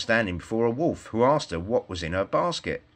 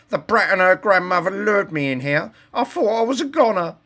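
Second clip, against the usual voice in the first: much higher, louder, put-on wolf voice; high relieved wolf; 10 semitones higher, 5 dB louder than usual. A narrator's reading. Wolf thanking the woodchopper, high and relieved. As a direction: gush with fake relief.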